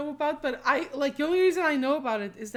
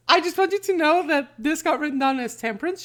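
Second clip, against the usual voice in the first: mock announcement; 5 semitones higher, 14 dB louder than usual. Real, not acted. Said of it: "I'm sorry, audience".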